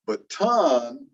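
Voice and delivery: "baton" with the stress on "ton" and a clear T; kept T. Shown as a demonstration. Teacher explaining accent patterns, "baton" with the T kept. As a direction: stress the second syllable of "baton", releasing the T fully. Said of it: "and so we kept the T".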